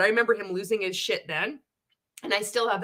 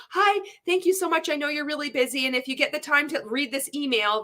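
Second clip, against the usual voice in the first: higher, sugary overpolite thanks; overly polite member; 6 semitones higher than usual. Retold or imitated. Members emailing customer service, an overpolite sugary voice. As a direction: grovel sweetly to the company. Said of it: "this is how we would talk".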